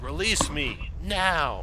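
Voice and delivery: high, loud muffled cry for help. Acted. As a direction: call out from inside a bottle. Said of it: "in a muffled voice".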